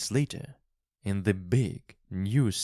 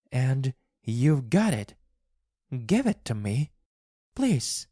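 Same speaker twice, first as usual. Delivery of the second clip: much higher, begging wife; pleading wife; 5 semitones higher, 4 dB louder than usual. A narrator's reading. Wife begs husband for the paw, high and pleading. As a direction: plead for it desperately.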